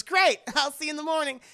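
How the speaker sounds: high loud laughing line; laughing reply. Retold or imitated. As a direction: blurt it through laughter. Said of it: "He goes".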